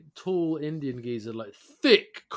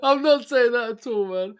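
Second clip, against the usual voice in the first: laughing; 8 semitones higher, 7 dB louder than usual. Real, not acted. Still laughing.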